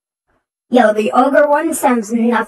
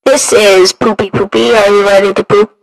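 tinny radio filter; 4 dB louder than usual. Pretend. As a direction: voice through a radio. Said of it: "this one sounds like a radio".

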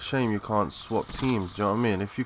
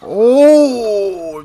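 surprised; 11 semitones higher, 13 dB louder than usual. Real, not acted. Sudden shout when he gets killed.

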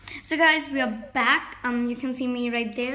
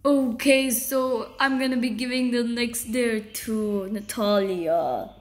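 dark scary voice; slower than usual. Pretend. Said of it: "you won't talk in a dark, like, a dark, scary voice".

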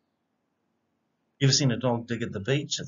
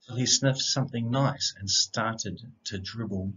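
bouncy rhyming read-aloud, opening lines louder; picture book reading; 2 semitones lower, 3 dB louder than usual. A narrator's reading. Reading a rhyming dog story aloud to children, lively storyteller voice. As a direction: read it like a bedtime story for kids.

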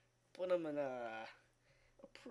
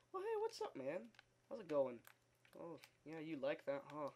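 spider voice; 3 dB quieter than usual. Pretend. Spiders greeting the player, a silly creepy put-on voice. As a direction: voice the friendly spiders, then get creepy. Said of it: "They'll just, like".

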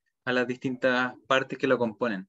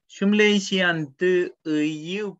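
lively greeting; 6 semitones higher, 4 dB louder, much slower than usual. Real, not acted. Animated greeting dialogue.

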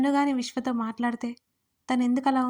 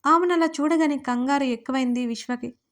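usual speaking voice

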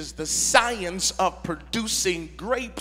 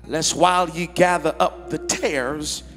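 measured, emphatic pulpit reading with long pauses; scripture reading. Acted. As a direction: read scripture aloud, stretching the key words. Reads scripture to congregation.

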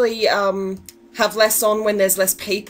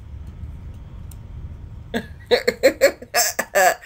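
breathy laughter. Real, not acted. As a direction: laugh silently through breath. Laughing at friend's death.

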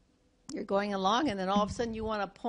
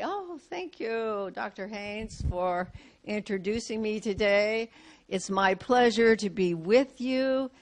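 smiling thanks; 3 dB louder than usual. Shown as a demonstration. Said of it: "If you're smiling".

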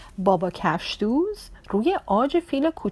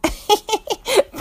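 high burst of laughter; 13 semitones higher than usual. Acted. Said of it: "زد زیر خنده". (خندهٔ بلند و زیر)

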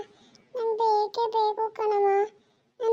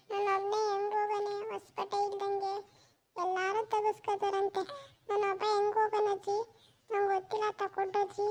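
whiny crying; 6 dB quieter than usual. Acted. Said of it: "ಯಾಕೋ ಅಳ್ತಾವನೆ".

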